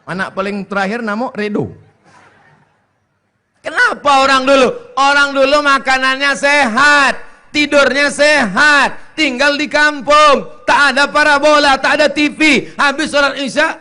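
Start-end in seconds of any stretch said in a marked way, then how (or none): 3.7-13.7 higher, louder, slowed phrases; emphatic preaching. Acted. Preacher praising old healthy life, emphatic. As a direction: preach it point by point.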